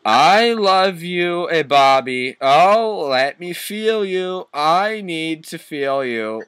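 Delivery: high, loud, drawn-out love cry; mock passionate scream. Lover crying out to Bobby mid-passion, hammed-up scream. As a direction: wail it slowly, hammed-up and high. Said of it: "he screamed as we got an orgasm".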